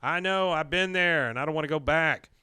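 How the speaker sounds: pained confession. Retold or imitated. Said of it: "He goes".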